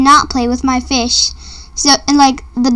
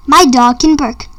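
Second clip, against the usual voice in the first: ordinary delivery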